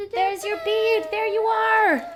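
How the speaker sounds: loud, high fanfare announcement; triumphant presentation. Real, not acted. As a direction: present it with a big drawn-out flourish. Sung presentation of the bead.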